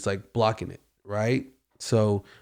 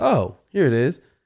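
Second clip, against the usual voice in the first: put-on casual, unbothered nonchalance, slower; 4 semitones higher, 3 dB louder than usual. Retelling what he said mid-scream after looking down, acting out an unbothered remark. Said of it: "he looks down and says".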